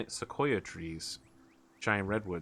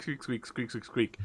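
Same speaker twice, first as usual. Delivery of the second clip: rat squeaks; 5 dB quieter than usual. Acted. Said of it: "the conversation from the rat is going squeak".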